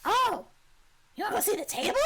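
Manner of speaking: high, eager little kobold; high-pitched creature voice. Acted. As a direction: pipe up as an excitable kobold. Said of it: "when you do your kobold voice".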